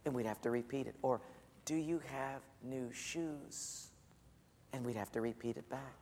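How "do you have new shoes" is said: whisper. Retold or imitated. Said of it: "She'd whisper something like this".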